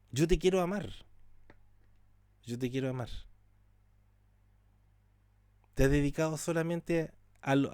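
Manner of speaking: a hint of hurt love, asking to be understood; Yeshua's tender tone. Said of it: "en ese tono".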